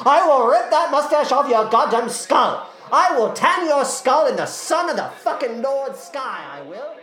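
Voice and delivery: high theatrical cockney rage; furious parting threat. Acted. Eliza threatens the mustached man as she leaves, furious cockney. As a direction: hurl a grand threat while storming off.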